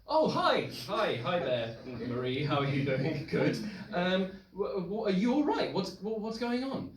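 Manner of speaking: high, nervous, stammering greeting; flustered panic. Retold or imitated. Startled at the door, asking the crying friend what's wrong, flustered.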